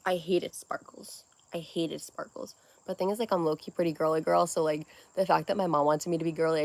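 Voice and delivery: quiet confiding talk; soft-spoken. Real, not acted. Soft intimate chat.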